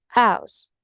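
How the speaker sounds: "house" begun on the vowel, no H; H dropped. Shown as a demonstration. Teacher corrects to Cockney, "house" without its H. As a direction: leave the H off "house". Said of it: "You're not going to pronounce the H".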